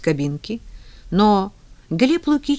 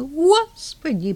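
причитая; 10 semitones higher, much slower than usual. Acted. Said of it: "причитала дама".

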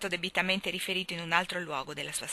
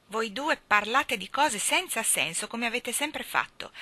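mildly indulgent, half reproachful, slow; half-scolding; 4 semitones higher than usual. Acted. Mrs Irving to the two dreamers, half-fond reproach. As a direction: scold gently, not quite meaning it. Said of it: "incerta tra l'indulgenza e il rimprovero".

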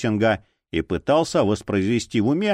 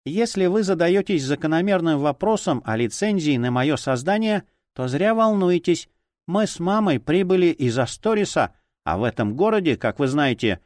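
talking doll; 3 semitones higher than usual. Acted. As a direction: speak like a small porcelain doll. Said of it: "прозвучал совсем близко тоненький кукольный голосок".

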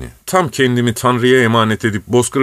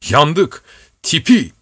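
higher, urgent call of alarm; alarmed cry; 7 semitones higher, slower than usual. A narrator's reading. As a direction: cry out the danger to the master. Driver cries out in storm. (yüksek sesle telaşlı bağırış)

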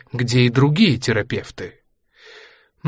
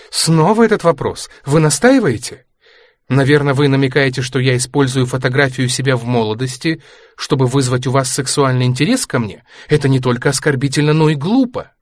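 offended retort; 2 semitones higher, 5 dB louder than usual. Acted. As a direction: bristle at the insinuation, sharpening. Natasha offended by the question. (возмущённо, громче и выше)

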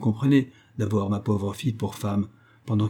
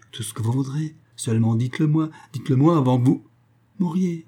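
pleading; 4 semitones higher than usual. Acted. Raymond begging the dying woman.

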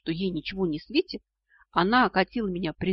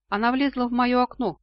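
lightly raised, smiling reply; 5 semitones higher, 4 dB louder than usual. A narrator's reading. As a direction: say it through a smile, pitched up. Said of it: "улыбнулся вампир". (с улыбкой, чуть повыше)

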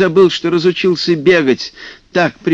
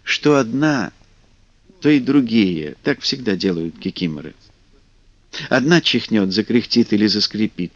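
ordinary delivery

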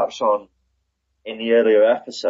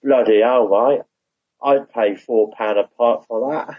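put-on Cockney accent; 3 semitones higher than usual. Host asks co-host to repeat the quote in Cockney, Cockney accent. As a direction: do the line in a slow, playful Cockney. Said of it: "Say that again in a Cockney accent".

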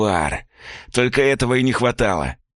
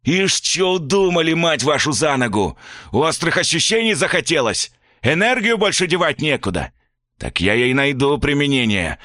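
furious father; 8 semitones higher than usual. A narrator's reading. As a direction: rage at the boy, then turn on the mother. Father raging at son.

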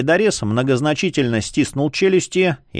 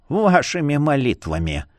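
snorting sarcasm; 2 semitones higher than usual. Acted. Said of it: "фыркнул Бахамут".

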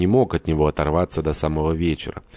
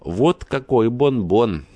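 hoarse laughing; 6 semitones higher, 4 dB louder, much slower than usual. A narrator's reading. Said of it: "хрипло захохотал".

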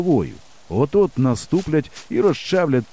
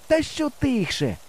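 high, drawn-out protest called across a distance; shouted retort; 12 semitones higher, slower than usual. A narrator's reading. Boy answers his hidden friend, shouted retort. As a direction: call back in protest. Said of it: "кричу я".

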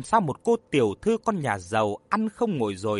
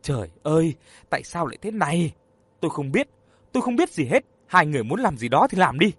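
anguished groan; 4 dB louder, faster than usual. Acted. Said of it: "Khang ôm đầu rên rỉ".

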